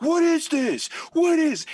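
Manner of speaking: high, loud baffled voices; mock a crowd asking what's going on; hammed-up confused crowd. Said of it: "They're like".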